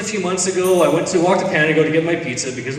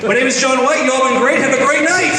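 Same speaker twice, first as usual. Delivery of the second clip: stage sign-off; 8 semitones higher, 3 dB louder than usual. Real, not acted. Comic signs off to crowd.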